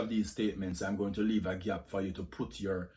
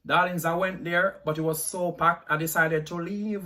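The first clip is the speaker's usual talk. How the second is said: posh uptown Jamaican accent; 5 semitones higher than usual. Shown as a demonstration. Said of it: "Jamaican accent tag".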